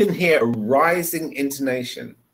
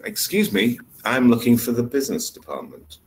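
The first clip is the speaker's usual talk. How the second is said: intonation example with a falling end; sentence read out. Shown as a demonstration. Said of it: "I will read these sentences".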